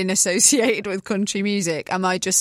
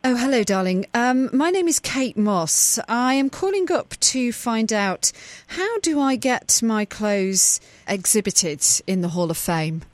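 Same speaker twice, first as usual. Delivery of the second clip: Kate Moss voice. Pretend. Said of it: "act like you're Kate Moss".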